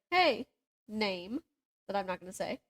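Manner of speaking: ordinary talk, nothing marked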